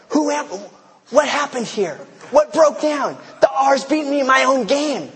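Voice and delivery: high, incredulous lion voice half-laughing; bewildered lion. Acted. Pastor voicing a lion outwitted in the office, high disbelieving cry. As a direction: squeal it out like a lion that just got beaten.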